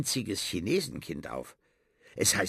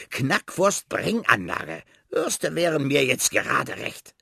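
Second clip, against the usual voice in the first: rat voice; 4 semitones higher, 4 dB louder than usual. Acted. Rat explaining, craving sausages.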